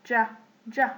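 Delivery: "ج" begun with a touch of D. Shown as a demonstration. Teacher showing letter J, "ج" with a D in it. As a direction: start "ج" on a D, releasing into J. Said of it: "تحس إن في دي معاها".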